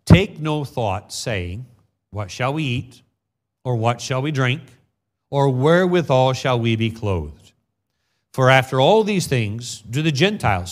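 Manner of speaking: solemn King James reading; scripture reading. Acted. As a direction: read the verses with weight.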